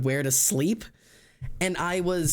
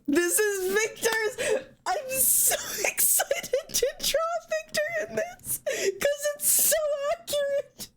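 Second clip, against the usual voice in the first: very high, slow, wheezing laugh-cry; crying with laughter; slower than usual. Real, not acted. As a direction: laugh so hard it turns to tears. Crying with laughter over Victor.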